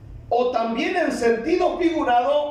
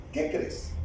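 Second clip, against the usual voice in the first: whispered question; 10 dB quieter than usual. Real, not acted. Preacher asks congregation directly.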